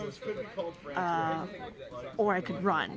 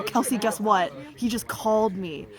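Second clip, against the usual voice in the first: louder, keyed-up retold announcement; acted-out breaking news, raised volume; urgent news; 2 semitones higher, 5 dB louder than usual. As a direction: burst out with it to a best friend. Retold urgent news to best friend.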